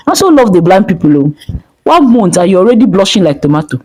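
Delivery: teasing. Acted. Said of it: "Kemi often teased her".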